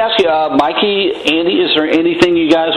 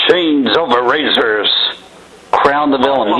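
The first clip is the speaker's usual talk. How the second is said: metal voice. Shown as a demonstration. Radio host hyping a band's album to fans, metal voice. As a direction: draw the band name out like a horror-film announcer. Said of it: "I tried to do my metal voice".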